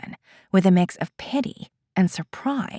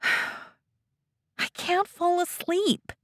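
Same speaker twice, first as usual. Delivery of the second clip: dejected; 12 semitones higher, 4 dB quieter, much slower than usual. Acted. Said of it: "She sinks her head and sighs".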